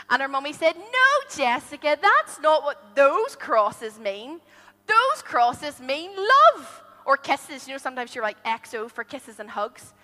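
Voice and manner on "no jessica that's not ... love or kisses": slow, gentle explaining; calm a worried little girl; reassuring mum. Acted. Mummy reassures Jessica, slow and gentle.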